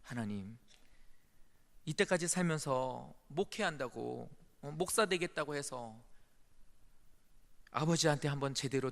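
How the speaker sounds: tearful prayer. Retold or imitated. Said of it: "울면서 기도가 되더라고요".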